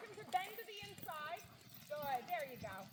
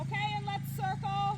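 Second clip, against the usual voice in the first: brisk projected riding commands; 3 semitones higher, 8 dB louder than usual. Real, not acted. Instructor calling across arena.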